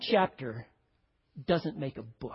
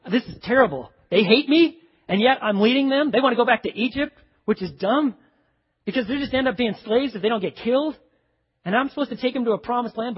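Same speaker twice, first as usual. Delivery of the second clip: louder and louder frustrated rant; exasperated Moses; 4 semitones higher, 5 dB louder than usual. Acted. Moses complaining to God about his people, a building loud rant. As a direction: vent like a fed-up leader in the desert. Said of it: "he's like".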